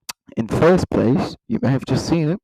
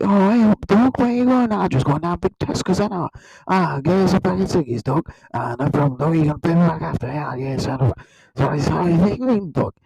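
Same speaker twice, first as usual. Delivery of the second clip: lightly exaggerated Nottinghamshire dialect; mock Nottinghamshire street chat; Nottinghamshire accent. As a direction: act out locals in a broad Nottinghamshire accent. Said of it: "that's how you sound".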